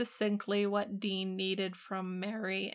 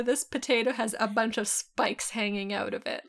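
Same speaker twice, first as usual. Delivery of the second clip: ordinary talk, nothing marked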